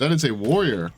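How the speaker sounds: "That is a warrior." said in his own voice, pleased; proud boast. Real, not acted. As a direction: brag about the damage. Boasting about damage.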